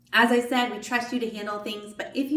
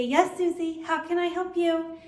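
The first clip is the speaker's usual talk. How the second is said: higher, sweet caretaker voice; friendly helper; 6 semitones higher than usual. Shown as a demonstration. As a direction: answer a little girl kindly. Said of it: "what I do is I open the door slightly and I say".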